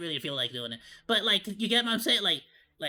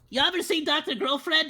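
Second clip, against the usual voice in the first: normal talking voice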